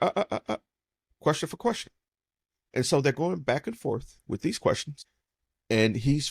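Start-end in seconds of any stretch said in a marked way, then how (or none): 0.0-1.9 higher, wagging-finger tut-tuts; father chides daughter, playful rebuke; mock scolding. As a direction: tsk her back into line. Father scolds her for breaking rules.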